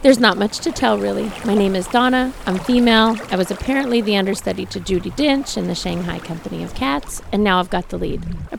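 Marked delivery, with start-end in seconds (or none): 0.0-5.6 fuller, projected character voice; confident character voice. Acted. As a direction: play the heroine with assurance. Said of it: "That's very good".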